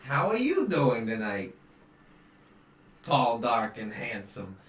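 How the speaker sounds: booming showy greeting fading down; hearty stranger greeting two adventurers; flashy charmer. Acted. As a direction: sweep in like a smooth flirt.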